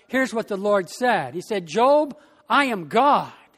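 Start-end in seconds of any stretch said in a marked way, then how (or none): 1.7-3.5 God's voice. Acted. Preacher voices God answering Job.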